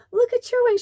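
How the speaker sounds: very high, loud thrilled squeal; grown-up playing along with a little girl; excited fairy play voice. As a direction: show the child her wings, delighted.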